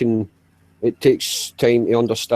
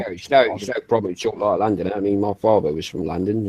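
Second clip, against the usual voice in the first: lower-pitched put-on London voice; London accent; 3 semitones lower than usual. Shown as a demonstration. Showing how father spoke, in low London accent. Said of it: "He spoke like this".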